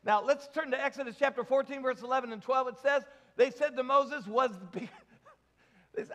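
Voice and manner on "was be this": reading that collapses into a laugh; fail to keep a straight face; breaking up laughing. Real, not acted. Preacher reading Israelites' complaint to congregation, breaking up laughing. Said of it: "can't even say this with a straight face".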